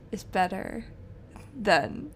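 trailing into a whisper; whispered hot take. Real, not acted. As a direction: whisper the controversial bit. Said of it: "this is super controversial".

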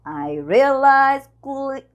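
"I realized quickly" whispered slowly with the pause; whispered practice of the line. Shown as a demonstration. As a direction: breathe it out, no voice. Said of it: "a gente tem uma pausa aqui".

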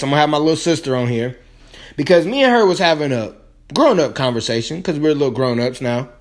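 talking between sips of tea; quick words around a sip; while sipping a drink. Real, not acted. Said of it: "Sorry if I'm sipping on my tea".

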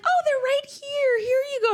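high, sweet, chirpy mom voice; hostess's mom. Retold or imitated. Mother telling the story of a party, voicing the hostess's mom in a high, chirpy voice. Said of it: "And she's like".

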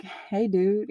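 breezy, offhand hello as if nothing happened; overly casual greeting. Retold or imitated. Walking back in after crying, greeting him with breezy calm. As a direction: act like nothing is wrong. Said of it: "Like, casual?".

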